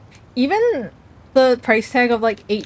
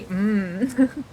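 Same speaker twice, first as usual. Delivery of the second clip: sincere mm; 5 dB quieter than usual. Real, not acted. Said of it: "not sarcastically".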